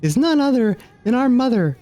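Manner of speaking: lightly voiced lofty goddess; a hint of a solemn mother goddess. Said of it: "I can't believe I'm doing these voices".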